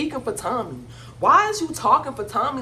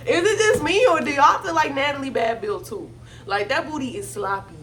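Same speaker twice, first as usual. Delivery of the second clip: higher, laughing through the question; 4 semitones higher than usual. Real, not acted. Roasting Natalie to viewers, laughing through it. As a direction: giggle as you ask the viewers.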